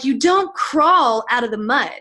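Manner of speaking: drawn-out, emphatic rallying line; retold motivational punch, slow and forceful; fired-up speaker. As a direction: imitate a fired-up stage speaker. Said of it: "getting really fired up".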